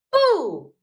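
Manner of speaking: loud, high jump-scare boo; spring out and shout boo; playful boo. Acted. Hippo leaps from the river to scare the bear cub, loud playful boo.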